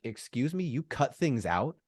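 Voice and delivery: retelling his shocked inner protest; mock outrage. Fan retelling his reaction to cut scenes, mock outraged. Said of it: "I was outraged".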